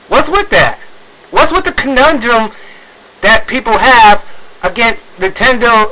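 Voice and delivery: high-pitched incredulous questioning; exasperated, high-voiced disbelief; baffled exasperation. Real, not acted. Baffled rant at fans' attitude.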